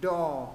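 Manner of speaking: "Đỏ" with a long rounded O. Shown as a demonstration. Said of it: "nâng cuống lưỡi nha".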